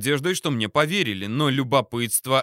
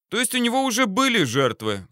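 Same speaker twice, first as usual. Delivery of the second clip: soulful; 10 semitones higher than usual. A narrator's reading. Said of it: "произнёс я проникновенно".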